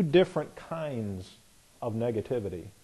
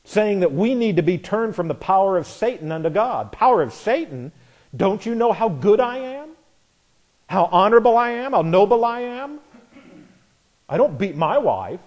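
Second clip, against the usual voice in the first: mock indignant boaster, rising higher; mocking proud voice; 5 semitones higher than usual. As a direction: sneer it like a self-satisfied man. Preacher voicing a proud man.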